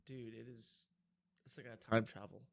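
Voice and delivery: breathy nostalgic whisper. Real, not acted. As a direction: hush it out, lost in memory. Smelling wine, nostalgic.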